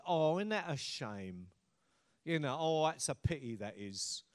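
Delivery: pitying sympathy. Acted. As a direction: lightly act out a hollow "what a shame". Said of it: "Sympathy just looks at a situation and goes".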